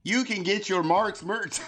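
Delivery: high, loud hammed-up Minnesota mom accent; silly Minnesota accent, breaking into a laugh. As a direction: pitch it way up in cartoonish Minnesotan. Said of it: "How do you do a Minnesota accent".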